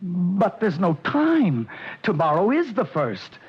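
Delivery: a frightened man pleading there's no time; panicky protest. Acted. Client tells the hitman time is short, anxious and high.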